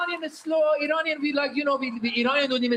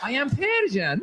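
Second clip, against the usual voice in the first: put-on gentle, lilting Iranian accent; sweetly harmless, through a smile; smiling Persian. Comedian contrasts Persian with fierce Arab, sweet and smiling. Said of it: "we smile".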